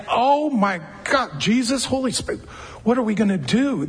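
hammed-up flustered fretting; mock alarm, rushing the last words; mock panic. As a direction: play a frantic God caught off guard. Mocking God panicking.

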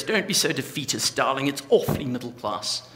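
a hint of an aristocratic English dowager; Dowager Countess impression. Preacher quoting a favourite Downton Abbey line in a mild English accent. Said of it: "I've just massacred her accent".

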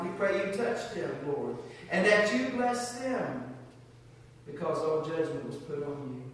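earnest spoken prayer to God. Real, not acted. Pastor leads closing prayer.

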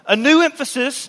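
emphatic new emphasis; stress on new. Shown as a demonstration. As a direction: punch new as the heading. Heading point of sermon.

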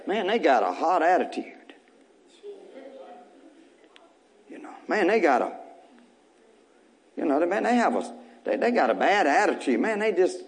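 complaining coworker. Retold or imitated. Coworker complaining about you.

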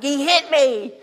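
high, tattling little brother; a mild mock whine; whiny kid. Younger brother tattling to his mom. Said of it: "And I was like".

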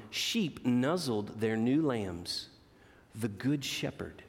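put-on expressive read-aloud to children; gentle storyteller voice for kids; storybook reading. A narrator's reading. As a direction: read it like a bedtime picture book. Reads picture book aloud.

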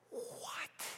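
awed, whispered disbelief; breathless whispered what. Real, not acted. Preacher whispering in awe at the stilled sea. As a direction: gasp it out in wonder.

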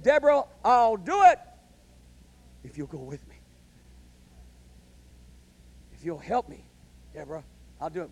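mock timid plea, dropping to near nothing; a whiny coward begging Deborah; timid Barak. Preacher mocks timid Barak.

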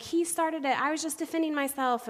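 high-pitched imitation of a kid making excuses; mock indignant self-defence; defensive boy. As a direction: protest your innocence like a kid. Boy blames another, defensive.

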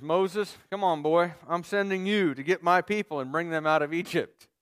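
loosely paraphrase God as a buddy calling; casual God paraphrase. Retold or imitated. Preacher voicing God casually to Moses, in everyday speech. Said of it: "if I can bring it into the vernacular".

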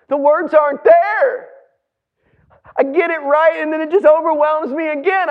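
performed distress, breaking off between phrases; acted overwhelmed grief. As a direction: stumble over the words, struggling to speak. Acts out overwhelmed grieving mother.

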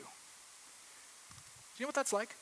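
whispered, slow and intimate. Real, not acted. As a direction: lean in and whisper the question slowly. Whispered intimate question to congregation.

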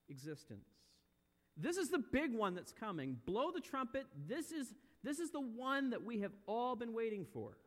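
emphatic pulpit warning, punching key words; urgent preaching. Real, not acted. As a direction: preach it with mounting urgency, pitch lifted.

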